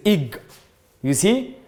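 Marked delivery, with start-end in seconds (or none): 0.1-0.4 "eg" said as a voiced "ig"; pronunciation demo. Shown as a demonstration. Teacher telling students the sound of E X, pronunciation demo. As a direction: give "eg" as one syllable, ig. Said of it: "the sound of E X is".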